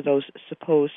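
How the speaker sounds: "supposed" punched after "those"; stress on supposed. Real, not acted. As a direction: put firm weight on "supposed". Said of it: "I continue to stress the word supposed".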